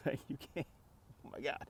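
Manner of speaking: laughing in disbelief. Real, not acted. Laughing at the absurdity.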